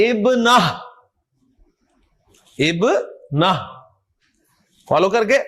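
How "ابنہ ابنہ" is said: ابنہ closed with H, no T; final H sound. Shown as a demonstration. Teacher drilling round ta at word end, ابنہ with final H. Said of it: "آپ نے ہا کی آواز نکالنی ہے".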